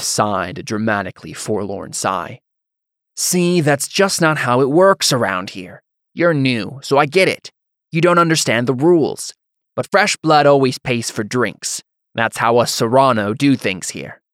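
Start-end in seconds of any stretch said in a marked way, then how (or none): 3.2-14.2 condescending hothead. Acted. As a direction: talk down to the newcomer like a cocky bully. Hothead lectures the newcomer.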